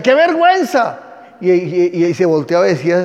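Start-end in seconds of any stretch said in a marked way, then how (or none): 0.0-1.0 a much higher, louder cry of shame; scandalized crowd. Acted. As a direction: gasp it out like a shocked onlooker. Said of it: "Y la gente decía".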